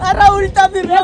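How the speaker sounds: half laughing, half crying, stress on अरे; laugh-scream through it. Real, not acted. Upside down again, laughing and crying to the camera.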